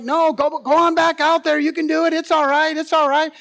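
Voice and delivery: high, reassuring urging in quick succession; acted-out parent nudging a scared child on; coaxing parent. Parent urging scared child back into the water, coaxing.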